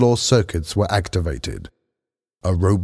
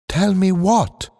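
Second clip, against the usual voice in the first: impatient; 11 semitones higher than usual. A narrator's reading. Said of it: "asked Lee Sing impatiently".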